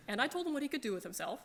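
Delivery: laughing. Real, not acted. Laughing while recounting retort.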